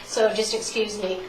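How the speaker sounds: congested, stuffed-up voice; stuffy with a cold. Real, not acted. Speaker apologizes to audience for a cold, stuffy and congested. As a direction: talk through a bit of a head cold. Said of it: "I sound kind of stuffy tonight".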